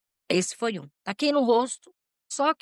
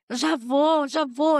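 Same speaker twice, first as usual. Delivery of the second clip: hurried reply; 6 semitones higher, 4 dB louder, slower than usual. Retold or imitated.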